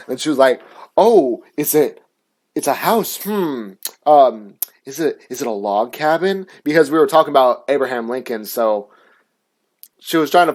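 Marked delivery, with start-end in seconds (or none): 1.0-6.5 imitating patronizing teacher. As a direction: lightly mimic a teacher's probing questions. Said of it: "legit says it like that".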